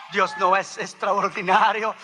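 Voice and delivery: rhetorical question pushed out with force; emphatic preaching. Real, not acted. Preacher repeats it to the congregation, emphatic preaching.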